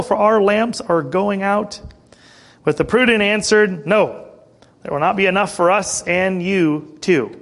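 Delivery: emphatic storytelling from the verse; scripture reading. Acted. Preacher reads the virgins' parable to church, emphatic scripture reading. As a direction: read the parable out to the congregation.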